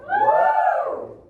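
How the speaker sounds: high, loud falsetto whoop; falsetto woo. Shown as a demonstration. Choir teacher modelling a falsetto woo. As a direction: throw it way up high. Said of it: "Everybody go, "Woo!".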